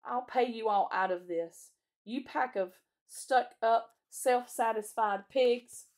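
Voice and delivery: loud, slow, vengeful grumble; resentful self-talk. A narrator's reading. Edmund vows revenge on the others to himself, bitter. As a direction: spit out each insult deliberately. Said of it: "Edmund was saying something to himself".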